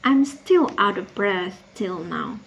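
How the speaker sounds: slow, deliberate stress on "still"; emphatic. Acted. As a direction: lean on "still" and draw the line out. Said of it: "Dia tekankan sampai dua kali ya".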